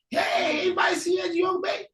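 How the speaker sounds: high, calling voice asking strangers; asking around. Acted. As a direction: shout out a question to the crowd. Brother asks townsfolk.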